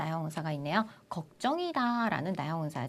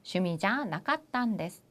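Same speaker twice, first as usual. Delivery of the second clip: slow repeat. Shown as a demonstration. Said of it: "이렇게 사용하시면 되겠습니다".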